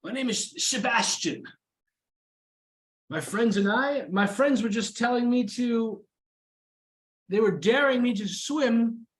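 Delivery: high-pitched, earnest elf. Acted. Sebastian explaining himself to the party, high voiced. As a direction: speak high and eager to explain.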